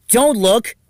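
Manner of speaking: high, loud flustered yell; mortified high shout; embarrassed shout. Acted. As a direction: shout to cover your shirt. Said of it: "shouted Yuta".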